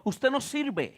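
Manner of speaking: very soft, belittling murmur. Retold or imitated. Preacher imitating voices that murmur around the listener, hushed murmur. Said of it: "voces que murmuran a su alrededor diciendo".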